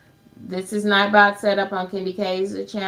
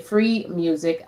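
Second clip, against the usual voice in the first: "free" drawn out slowly for emphasis; slow down and lean on "free"; "free music" with the weight on "free"; stress on free. Real, not acted. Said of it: "emphasis on free".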